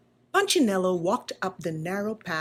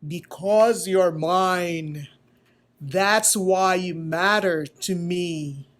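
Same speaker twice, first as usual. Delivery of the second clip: slow, weighty and tender; slow loving maker; very slowly; 2 semitones lower, 4 dB louder, slower than usual. Acted. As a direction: let each word land gently. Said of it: "Eli spoke very slowly".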